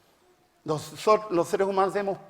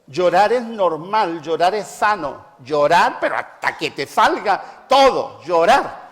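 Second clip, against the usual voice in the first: exhortación enfática; 5 dB louder, slower than usual. Real, not acted. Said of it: "exhorta a llorar".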